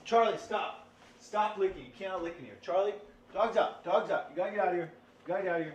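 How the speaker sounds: high, sharp commands to the dog; dog-scolding voice. Real, not acted. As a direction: order the dog out, pitched high.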